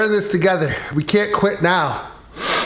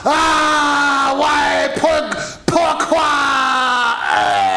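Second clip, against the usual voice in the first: french chef; 9 semitones higher, much slower than usual. Acted. French puppet shot, dramatic dying cries.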